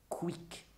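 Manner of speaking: sharp spoken squeak effect; quick brushstroke noise. Acted. Picasso painting the night, sharp imitated noise. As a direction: imitate a sudden stroke of the brush. Voicing the painter's strokes aloud.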